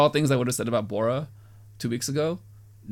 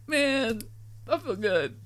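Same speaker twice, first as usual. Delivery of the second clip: delighted viewer; 10 semitones higher than usual. Retold or imitated. Imitating viewer's reaction.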